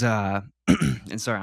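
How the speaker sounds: throat catching after a sip; clearing a choked throat; choking on water. Real, not acted. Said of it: "I'm choking on my, my drink of water".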